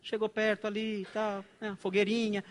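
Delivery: demonstrated careful, tentative breaking of news; gentle, gradual. Shown as a demonstration. Pastor breaking bad news to a mourner, cautiously. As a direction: ease into it bit by bit. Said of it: "Fala devagar".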